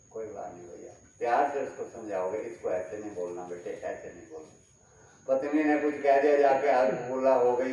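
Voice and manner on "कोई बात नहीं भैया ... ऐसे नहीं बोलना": softer gentle calming. Pretend. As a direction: soothe them kindly, as you would a child. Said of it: "किसी ने कुछ कह भी दिया तो शांत रहोगे". (शांत, प्यार भरी नरम आवाज़)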